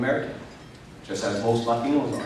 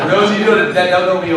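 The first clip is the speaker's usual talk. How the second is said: excited; 7 semitones higher, 8 dB louder than usual. Real, not acted. Recovering after crowd laughter.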